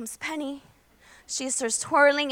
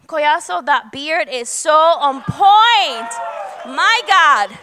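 louder, slowed teasing compliment; calling out; 4 dB louder, slower than usual. Real, not acted. Pastor teasing Collazo in the congregation about his beard, loud. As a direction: shout the praise across the room.

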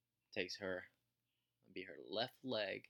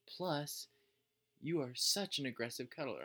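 mimicking wife; 6 semitones higher, 5 dB louder, slower than usual. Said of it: "she's like".

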